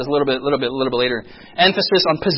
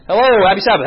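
retold congregation greeting; 3 semitones higher, 4 dB louder, faster than usual.

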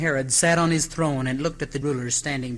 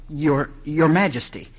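faltering; 2 semitones higher, 5 dB louder than usual. Acted. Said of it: "the scribe faltered".

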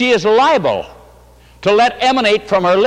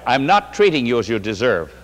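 laughing; 7 semitones lower than usual. Retold or imitated. Wife laughing while telling.

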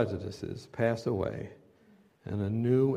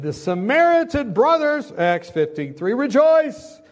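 much higher and louder, rejoice rings out; preaching shout; 11 semitones higher, 9 dB louder, slower than usual. Real, not acted. Preacher lifting the congregation, loud rejoicing proclamation.

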